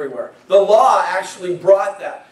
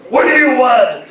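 a mock booming wizard, a bit higher and mean; 4 semitones higher, 3 dB louder than usual. Preacher imitating the Wizard of Oz, mock mean voice. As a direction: play the wizard barking at the visitors, half in jest. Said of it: "a mean voice".

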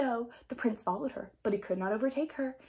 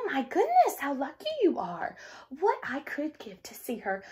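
soft wistful; 4 semitones higher than usual. Acted. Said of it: "smiled and said softly".

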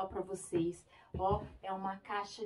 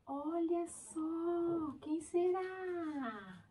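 playful suspense; 7 semitones higher, much slower than usual. Acted. Slow suspense before reveal.

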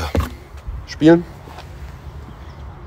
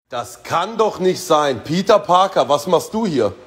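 playful villain voice; 8 semitones higher than usual. Acted. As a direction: play the Green Goblin lightly, higher. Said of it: "Der grüne Kobold?".

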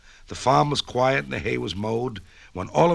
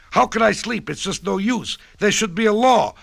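crying goose; 9 semitones higher, 5 dB louder than usual. A narrator's reading. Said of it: "cried Gwendolyn Goose".

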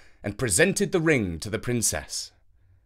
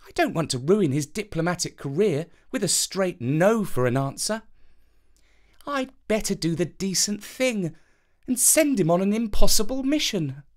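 high, sweet princess voice musing; a scheming princess weighing her options; princess thinking aloud; 6 semitones higher than usual. A narrator's reading. Princess plotting to herself, high and sweet.

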